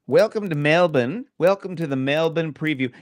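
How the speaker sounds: high, far-off showman voice welcoming listeners; mock announcer welcome. Co-host opens the Melbourne preview in a hammed-up announcer voice. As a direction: put on a hammy host voice.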